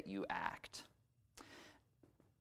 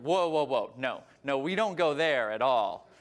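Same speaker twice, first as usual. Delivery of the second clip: loud refusal; 4 dB louder than usual. Retold or imitated. Therapist refusing to hear about her father, loud. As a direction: wave her off firmly.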